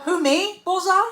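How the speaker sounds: high, mock-innocent who me. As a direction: play dumb like Bullseye on the cover. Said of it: "'Cause that's what his face says".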